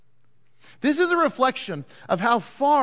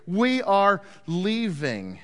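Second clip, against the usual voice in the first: slow, word-by-word declaration; deliberate, measured walkout line; firm announcement; much slower than usual. Acted. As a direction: space out each word with finality. Tribes announce they walk out.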